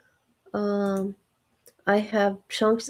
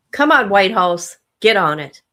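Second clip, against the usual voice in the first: loud, impatient calling out; loud urging; 7 dB louder than usual. Real, not acted. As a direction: push the computer along out loud. Urging the computer to load.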